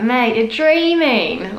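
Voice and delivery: slow, dismissive put-down; slow scoff at a silly idea. Shown as a demonstration. Quoting the ad.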